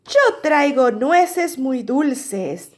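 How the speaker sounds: lightly acted cheerful badger, slowly announced; smiling badger. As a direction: offer a treat with an audible smile. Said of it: "dice Tejón sonriente".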